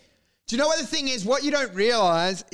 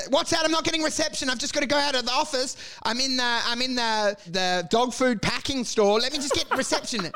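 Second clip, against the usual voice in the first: fake bad line excuse; 5 semitones higher than usual. Broker fakes bad reception.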